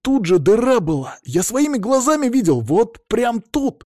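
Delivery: high, loud, agitated protest; bewildered insistence. A narrator's reading. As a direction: insist you saw it yourself. Bewildered boy insists on hole.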